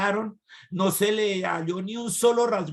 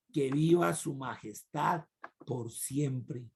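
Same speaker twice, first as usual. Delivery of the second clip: soft reverent reply; 3 semitones lower, 5 dB quieter, slower than usual. Shown as a demonstration. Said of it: "¿Cómo le dijo?".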